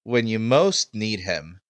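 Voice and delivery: high, loud, stretched-out proclamation; slow, grand high-pitched announcement; flamboyant host. Acted. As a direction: hail the hero, dragging out the name. Host theatrically hails the visitor.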